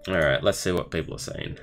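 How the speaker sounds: ordinary talk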